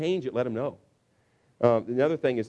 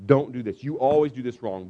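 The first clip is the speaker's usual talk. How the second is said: overcritical parent; 5 dB louder than usual. Acted. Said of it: "the parent who says negative things".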